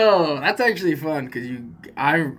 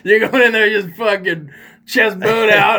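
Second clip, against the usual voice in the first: pumped-up swagger; 6 semitones higher, 8 dB louder than usual. Acted. Mocking friend's swagger.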